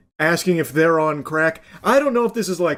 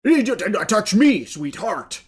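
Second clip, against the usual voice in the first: over-enunciated mock; 2 semitones higher, slower than usual. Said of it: "over enunciating his lines".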